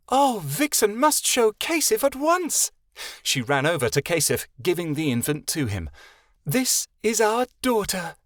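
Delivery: very high, slowed, delighted fairy voice; excited fairy. A narrator's reading. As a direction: gush over the baby. Vixen shows the baby.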